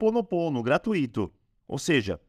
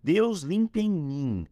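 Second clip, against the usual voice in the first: "Deus limpa em mim" said slowly, each word drawn out; slow recited prayer; 2 semitones higher, slower than usual. Shown as a demonstration. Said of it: "Eu digo".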